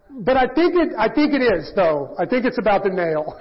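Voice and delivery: mock insistent husband. Acting husband arguing back.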